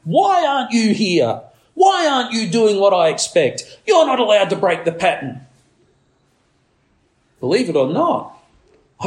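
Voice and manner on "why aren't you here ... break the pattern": put-on mild demanding baby; a hint of an indignant toddler. Preacher voices the angry baby to parents, mild mock indignation. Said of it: "You hear the anger in that tiny little voice".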